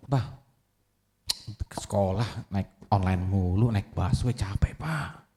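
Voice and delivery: quiet, slow complaint fading to a whisper; a lightly voiced sulky teen; whiny son. Son complaining to his father about the bus, quiet whine.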